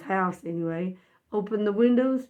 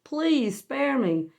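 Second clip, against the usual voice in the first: tearful plea; 2 semitones higher than usual. Retold or imitated. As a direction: plead for mercy, stretching the last words, without real sobs. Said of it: "started crying".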